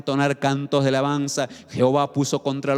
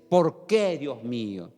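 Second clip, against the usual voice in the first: queja actuada, grave y contenida; lamento desesperado; 5 semitones lower than usual. Acted. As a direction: imita un lamento a Dios, bajando el tono. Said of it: "se desespera y dice". (lamento fingido, más resignado que gritado)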